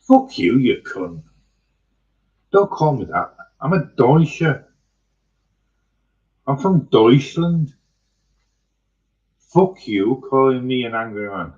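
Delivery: shouted high and loud, full of outrage; a German yelling back at being called angry; furious German retort. Retold or imitated. Germans telling off those who call them angry, furious shout. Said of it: "even the Germans have forgot to say".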